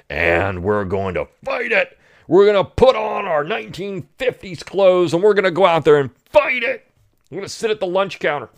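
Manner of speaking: high, hammed-up mock of activists. Host mocks activists larping the sixties, hammed-up. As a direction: ham up their heroic larping.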